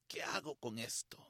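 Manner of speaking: low, whispered question; whispered prayer. Retold or imitated. Man asks Jesus what to do with a photo, whispered prayer. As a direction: ask it under your breath. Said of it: "y pregunté, "Jesús".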